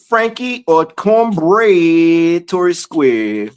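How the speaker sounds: playful teasing. Pretend. Teasing rhyme to listeners, drawn out.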